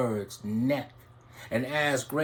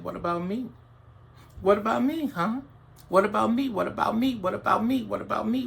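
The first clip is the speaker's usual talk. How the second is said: higher, pleading little voices; begging birds; 5 semitones higher, much faster than usual. Acted. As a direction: plead to be next. Many birds begging in turn.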